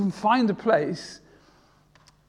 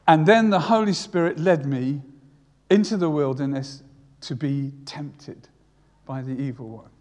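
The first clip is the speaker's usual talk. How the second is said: imagined Jesus; 5 dB louder than usual. Retold or imitated. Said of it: "I can imagine Jesus at this point saying".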